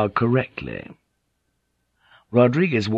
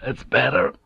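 a touch hoarse, slightly raised; 4 semitones higher than usual. Acted. Rodriguez to the apologizing samurai, hoarse approval. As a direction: say it with a roughened throat. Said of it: "Rodriguez said hoarsely".

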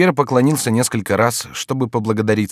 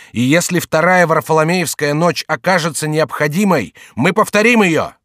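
loud soapbox ranting; 6 semitones higher, 4 dB louder than usual. Acted. Climax of fanatic speech.

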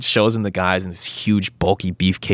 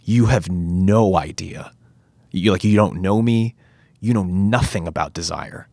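earnest monologue. Retold or imitated. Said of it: "Andrew says this thing".

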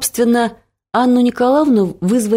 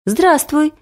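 politely called out greeting, a touch higher; polite call back; 8 semitones higher than usual. A narrator's reading. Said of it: "вежливо крикнула я в ответ".

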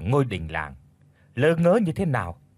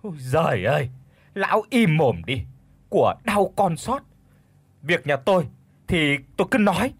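loud, high furious yell; shouting; 4 semitones higher, 3 dB louder than usual. Acted. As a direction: scream at the old man, higher. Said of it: "đã xót quá nên đã gào lên". (gào lên giận dữ)

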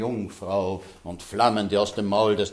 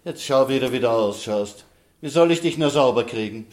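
evil queen; 4 dB louder than usual. Acted. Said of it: "Da sagte die Königin".

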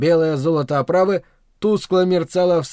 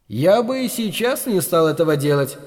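snooty bored cat. Acted. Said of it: "фыркнул кот".

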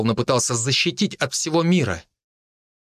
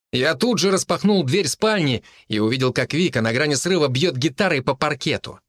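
usual speaking voice

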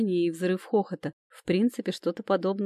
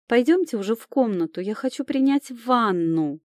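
со стоном; 5 semitones higher, 4 dB louder than usual. Acted. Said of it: "простонала Камила".

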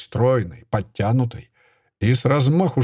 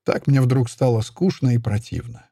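plain reading voice

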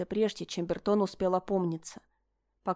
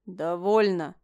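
threatening; 4 dB louder, slower than usual. A narrator's reading. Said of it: "угрожающе произнёс Ален".

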